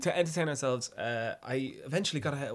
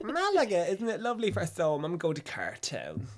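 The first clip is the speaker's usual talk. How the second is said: North Dublin hairdresser; 6 semitones higher, 3 dB louder than usual. Retold or imitated. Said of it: "this North Dublin hairdresser called Shar".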